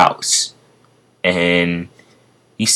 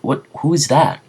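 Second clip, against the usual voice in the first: startled; 8 semitones higher than usual. Acted. Deku surprised.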